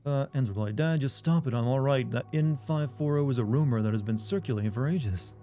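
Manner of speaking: put-on southern accent. Streamer voicing her dad's text message in a mild Southern accent. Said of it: "I'm giving her dad a southern accent".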